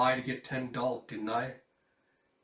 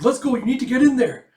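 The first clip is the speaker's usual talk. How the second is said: shouting; 12 semitones higher, 15 dB louder than usual. Acted. Adults hurry people in.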